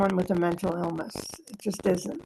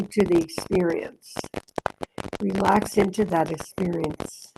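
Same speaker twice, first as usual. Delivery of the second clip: meditative reading. Acted. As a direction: read it as a calm inner guidance. Reads the text aloud.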